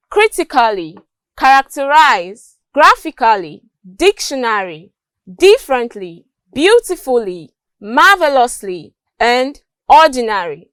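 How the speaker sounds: every word from "critically" to "ordinary" stressed at the start; first-syllable stress. Shown as a demonstration. Teacher listing examples, first syllable stressed from "critically" to "ordinary". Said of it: "words stressed on the first syllable".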